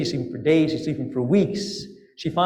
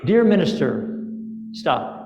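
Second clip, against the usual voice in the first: telegram dictation. Acted. Minister reads the princess's message, in telegram style. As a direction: read it out in separate chunks with long pauses. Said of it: "Like a telegram".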